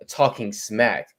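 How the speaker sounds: slow, lightly mocking white-person voice; mock white American. Disowning a phrase as too white, lightly mocked white American. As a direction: draw it out, lightly imitating a white speaker. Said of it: "That's the whitest shit I ever heard".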